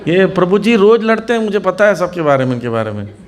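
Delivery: a hint of a seven-year-old telling on his parents; child's voice. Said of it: "तो बच्चा क्या बोलता है".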